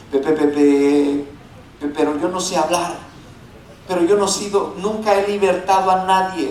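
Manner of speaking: stuttering on pe, pe, pe, pe, pero; a nervous Moses tripping over the first word; stammering Moses. Retold or imitated. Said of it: "aunque Moisés dijo". (Moisés tartamudeando con timidez)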